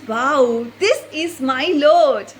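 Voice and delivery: slow, wondering "Wow, this is my Lord"; awed exclamation. Shown as a demonstration. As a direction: marvel at it as if seeing God. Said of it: "say to ourselves in our hearts".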